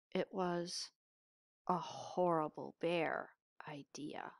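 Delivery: hushed, breathless secret; sneaky whisper. A narrator's reading. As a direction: whisper it like a naughty plan.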